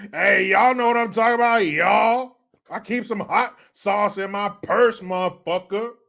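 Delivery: Hillary. Retold or imitated.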